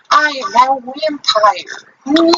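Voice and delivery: slow, high hammed-up vampire. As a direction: drag it out like a cartoon vampire. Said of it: "stereotypical, like, vampire voice".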